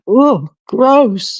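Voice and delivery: high, grossed-out exclamation; mock revulsion; retold disgust. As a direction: act out being revolted. Retold disgust at mom's remark.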